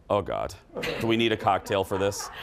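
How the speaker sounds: laughing mock dread. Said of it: "my best friend Jen goes".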